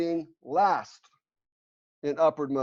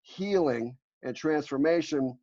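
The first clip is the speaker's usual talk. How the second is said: "healing" and "transformation" drawn out slowly; emphasis on key words. Real, not acted. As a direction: underline "healing" and "transformation" by slowing down. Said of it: "I have to underline the word".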